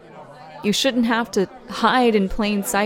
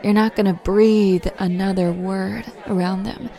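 firm threat. Acted. Threatening the bully.

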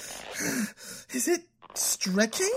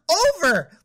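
loud, high furious shout of one word; angry yell; 5 semitones higher, 6 dB louder than usual. Acted. Dumped girlfriend yelling the word from his text in fury. Anger erupts at boyfriend.

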